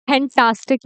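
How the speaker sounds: "फैंटास्टिक" as phen-taastic, with long "aa"; mispronunciation. Shown as a demonstration. Teacher rejecting another common error, "फैंटास्टिक" mispronounced phen-taastic. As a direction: say "फैंटास्टिक" wrongly, puffed P and "taas". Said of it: "नहीं बोलते".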